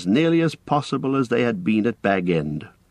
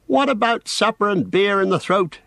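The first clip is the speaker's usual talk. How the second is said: high voice calling through the door; 11 semitones higher than usual. A narrator's reading. Merry calls through the bathroom door, raised high voice. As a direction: call to the bathers inside. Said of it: "he called".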